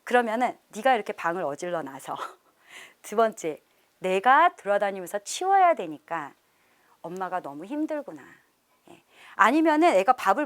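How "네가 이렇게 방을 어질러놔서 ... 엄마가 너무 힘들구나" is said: gentle I-message. Shown as a demonstration. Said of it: "예를 들어서".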